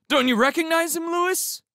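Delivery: put-on very high, loud kid's voice; excited kid. A narrator's reading. Kid to Lewis about the famous stranger, excitedly. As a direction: ask it in eager disbelief.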